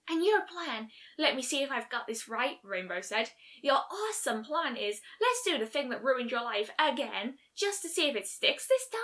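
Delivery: mock the plan with sarcasm; sarcastic. Rainbow mocks the plan.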